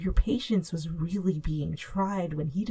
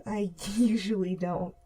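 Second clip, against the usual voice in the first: a small laugh breaking into the words; light laugh. A narrator's reading. Girl joking weakly to her friend, light laugh. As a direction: laugh it off through tears. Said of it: "You lightly laughed".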